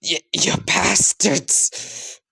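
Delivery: slow, stammered high yell; girl yelling at the closet, held back. Acted. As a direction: spit it out at them, drawn out.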